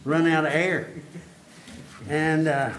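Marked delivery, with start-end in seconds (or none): 0.0-0.9 breathless after a long stretch; gasping for air; out of breath. Real, not acted. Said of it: "That was all one breath".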